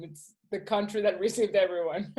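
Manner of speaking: laughing through the words; a real chuckle at her own joke. Real, not acted. Joking aside about America.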